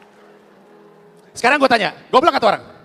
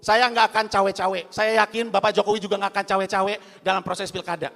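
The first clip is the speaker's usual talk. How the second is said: slow, measured speech tone; a hint of a politician's podium delivery; lightly voiced speech quote. Quoting Prabowo's campaign speech, lightly voiced and slow. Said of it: "Bikin pernyataan".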